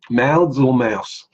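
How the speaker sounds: drawn-out, loud mock confusion over the accent; mock puzzled. Teasing the chat about his accent, slow mock puzzlement.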